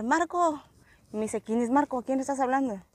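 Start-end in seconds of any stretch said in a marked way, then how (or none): 0.0-0.6 retold calling. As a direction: imitate a far-off holler at talking volume. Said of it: "empecé a gritar".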